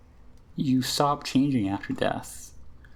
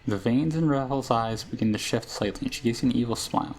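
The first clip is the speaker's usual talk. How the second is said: a hint of a sly old witch, menacing then tender; lightly played crone, half narration; lightly voiced hag Ravel. Reads Ravel's scene and lines.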